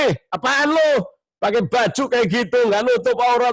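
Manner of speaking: high, harsh mock scolding. Shown as a demonstration. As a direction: snap at her rudely. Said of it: "wah, dicaci maki". (menegur dengan kasar)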